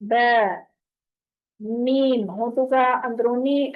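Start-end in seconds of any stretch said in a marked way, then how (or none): 0.0-0.6 बै said with lips spread as in a smile; Arabic ba, smiling lips. Shown as a demonstration. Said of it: "होंठों को smile करना है".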